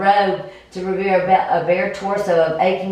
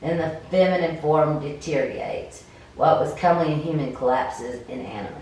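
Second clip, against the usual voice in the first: game master narration; 2 semitones lower than usual. Acted. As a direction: paint the scene, unhurried.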